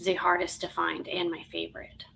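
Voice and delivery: 大好きな石を囁いて打ち明ける; whisper. Real, not acted. Confides favorite stone.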